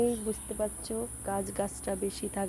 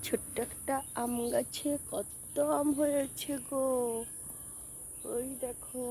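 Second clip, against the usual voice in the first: soft, hushed vlog talk; speaking softly; 5 dB quieter than usual. Real, not acted. Vlogger keeping her voice down while showing the garden, soft. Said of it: "আমি না আস্তে আস্তে কথা বলছি".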